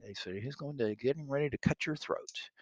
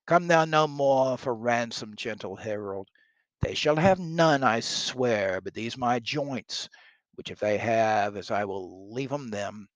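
defiant king; 6 dB louder than usual. Acted. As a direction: read it as a king dismissing a herald. Reads King Harry's defiant reply aloud.

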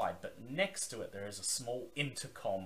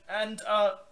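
higher, louder gruff gatekeeper; gruff male voice; 6 semitones higher, 7 dB louder, faster than usual. Acted. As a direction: bark it like a gruff guard. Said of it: "says the man".

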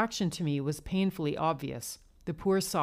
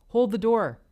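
higher, louder call; 5 semitones higher, 8 dB louder than usual. Acted. Bill hurries for the elevator, calling out. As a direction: call out to stop someone leaving.

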